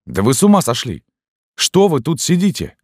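high, loud scolding cry; beside herself. A narrator's reading. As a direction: scold her in alarm, pitch up and loud. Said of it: "продолжала вне себя".

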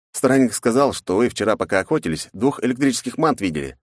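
put-on young buddy voice. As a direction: ask like a curious friend. Snegir voiced.

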